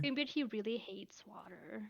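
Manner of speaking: whispered aside, no voice; stage whisper. Acted. Player whispering the cat's message to Greenbeard.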